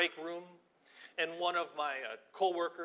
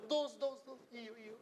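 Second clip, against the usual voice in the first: high, bright sing-song calling; cheerful call; 8 semitones higher, 5 dB quieter than usual. Retold or imitated. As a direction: wave the cars through cheerfully.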